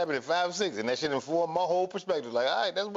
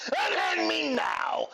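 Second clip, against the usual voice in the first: haughty granny; 9 semitones higher, much slower than usual. Retold or imitated. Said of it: "she hit that nigga with".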